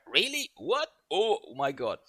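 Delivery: high, exaggerated gasps of amazement in short bursts; mock disbelief. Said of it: "he's like in disbelief, constant disbelief".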